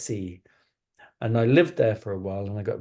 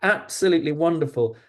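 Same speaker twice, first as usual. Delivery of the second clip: gushing admirers; 5 semitones higher, 3 dB louder than usual. Acted. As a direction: coo like grown-ups admiring a kitten. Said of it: "everybody who saw Max thought".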